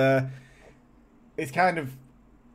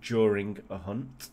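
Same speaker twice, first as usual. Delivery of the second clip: French accent. Shown as a demonstration. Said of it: "It sounded like you said during a hunt".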